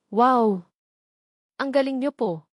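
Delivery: put-on delighted boy's wow, bursting out loud; a kid in awe of the drawing; amazed child. A narrator's reading. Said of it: "nanlaki sa pagkamangha".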